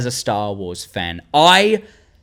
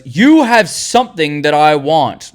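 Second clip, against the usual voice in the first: villain quote; 4 dB louder than usual. Retold or imitated. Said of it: "the kind of guy that goes".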